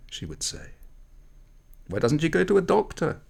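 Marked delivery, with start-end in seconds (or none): 1.9-3.2 high, pressing question; curious girl, pitched up and insistent; prying girl. A narrator's reading. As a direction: press her like a nosy friend. Girls prying further.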